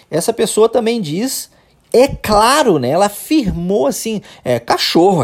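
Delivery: normal talking voice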